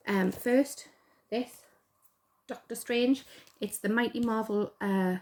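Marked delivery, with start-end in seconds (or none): 3.6-5.2 natural Geordie lilt; everyday Geordie accent slipping through; unforced Geordie vowels. Real, not acted. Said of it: "I sound so Geordie there".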